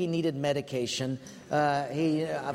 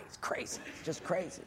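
muttered aside; 9 dB quieter than usual. Retold or imitated. Muttered private thought.

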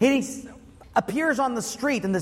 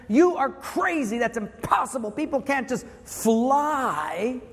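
incredulous scoff; 4 semitones higher than usual. Retold or imitated. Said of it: "This guy would say".

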